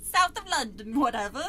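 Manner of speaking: badly faked Londoner; mock London accent. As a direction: throw on a cheeky London accent.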